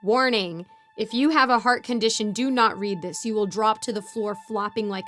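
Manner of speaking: loud, urgent mock warning. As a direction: announce it like a dire alert.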